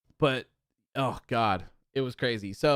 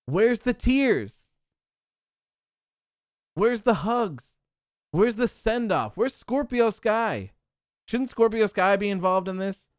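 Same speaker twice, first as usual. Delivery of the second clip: higher, exasperated demands, dragged out slow; frustrated rant; 5 semitones higher than usual. Real, not acted. Fan ranting at the show's missing send-off, exasperated. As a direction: fire off each question in real frustration. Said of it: "that's so frustrating".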